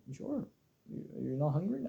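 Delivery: imitating dad. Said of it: "He's like".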